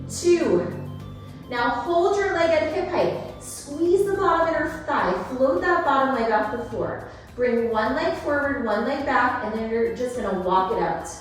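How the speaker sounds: upbeat workout cueing; aerobics instructor. Acted. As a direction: coach the class through the reps. Fitness instructor cueing class.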